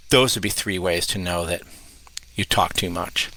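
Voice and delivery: measured answer with long pauses; lightly put-on public-radio calm; NPR voice. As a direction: take your time, like a composed radio guest. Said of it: "N P R voice".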